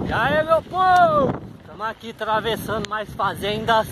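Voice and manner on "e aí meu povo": high, slow drawn greeting; sing-song greeting. Real, not acted. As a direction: sing the hello to viewers. (saudação cantada)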